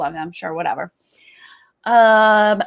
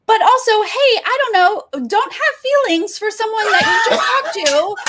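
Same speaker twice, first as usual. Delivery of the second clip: laughing exclamation; 11 semitones higher than usual. Real, not acted. Warning contestants, laughing.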